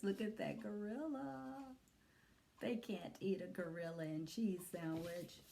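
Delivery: soft whispered comment; hushed aside. Real, not acted. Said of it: "whispered aside".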